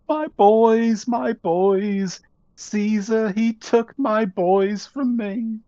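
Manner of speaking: put-on high, slow keening over her boys; grieving mother. Mother over her sons' corpses, high slow lament. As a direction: mourn them high and slow.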